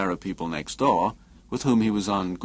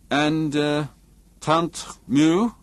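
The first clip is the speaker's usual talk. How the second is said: firm, pitched higher; 7 semitones higher, 3 dB louder, much slower than usual. A narrator's reading. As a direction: say it firmly, voice lifted. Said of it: "Jensen said firmly".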